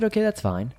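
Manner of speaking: very high, sweet man's voice; high-pitched man voice. Retold or imitated. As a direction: speak like a mother to a small child. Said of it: "He had a very high-pitched voice".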